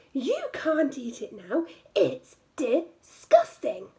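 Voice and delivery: a hint of a fussy little girl, turning up her nose; little girl wrinkling her nose at the sandy sandwich; lightly voiced little girl. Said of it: "said the little girl".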